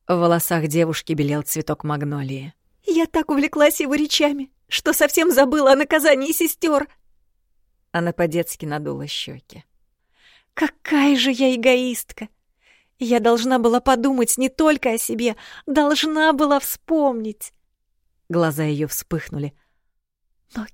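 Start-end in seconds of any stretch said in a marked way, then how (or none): 2.8-6.9 put-on higher girlish voice, carried away; a princess rambling about her walk; higher lively girlish chatter; chattering young girl. A narrator's reading. Princess confessing. 10.5-17.5 put-on higher, louder girlish self-reproach, slowing; a princess berating herself; self-scolding girl. A narrator's reading.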